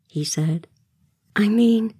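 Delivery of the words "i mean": higher, kindly softened lead-in; nice. A narrator's reading. Wendy as hostess to Peter, nice. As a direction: backtrack politely, as a hostess. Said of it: "Wendy said nicely".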